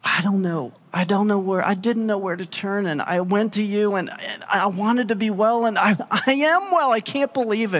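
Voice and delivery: overwhelmed, a touch tearful; healed woman pouring out her story to Jesus; mild emotional outpouring. Acted. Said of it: "she just loses it".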